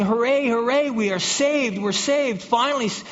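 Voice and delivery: thrilled castaway seeing the rescue plane; excited cheering. Pretend. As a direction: cheer like you've just been spotted by the Coast Guard. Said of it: "you jump up and down".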